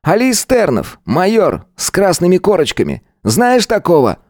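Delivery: high brash schoolboy voice; cocky teen Gvozd. A narrator's reading. Schoolboy bully accosting Nik in the yard, cocky. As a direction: swagger up and call him out.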